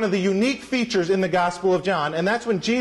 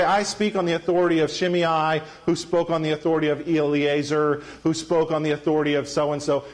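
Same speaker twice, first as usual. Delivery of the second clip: lower, level-pitched recital of a teacher's credentials; citing rabbi; 4 semitones lower than usual. Retold or imitated. Preacher mimics teachers citing other rabbis, in a level recital. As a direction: imitate a teacher reciting a chain of authorities. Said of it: "Jesus doesn't talk like that".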